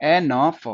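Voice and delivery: ए न फ as three separate sounds; sounded out. Shown as a demonstration. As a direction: break it up sound by sound: ए, न, फ. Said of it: "उसके साथ जोड़ दिया हमने एफ". (ए न फ, हर ध्वनि अलग-अलग)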